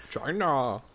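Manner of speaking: flat mechanical robot voice. Acted. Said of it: "say vagina in a robot voice".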